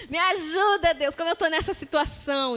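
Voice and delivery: a touch of a whiny sob; imitating someone crying out to God, mock sob. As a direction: whimper it like a hurt child. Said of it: "E aí você chora".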